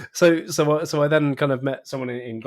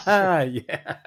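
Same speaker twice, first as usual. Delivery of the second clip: laughing; 8 semitones higher, 7 dB louder than usual. Real, not acted. Laughing at girlfriend joke.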